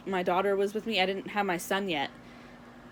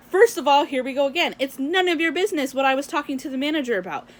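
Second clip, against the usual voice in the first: retold telling-off; 4 semitones higher, 3 dB louder than usual. Telling off the woman.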